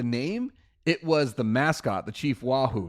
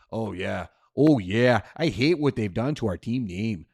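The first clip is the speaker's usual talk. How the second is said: put-on a light Midwestern accent, folksy fan griping; lightly imitating a Midwestern sports fan; 3 semitones lower than usual. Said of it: "That's my best Midwestern accent".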